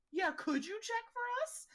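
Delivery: put-on high kid voice. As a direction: squeak it like a young boy. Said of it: "the friend's like".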